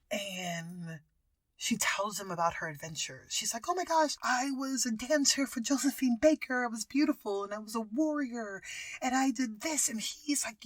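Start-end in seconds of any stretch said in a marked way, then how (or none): 3.7-9.9 excited retelling. Retold or imitated. Acting wife telling her adventures.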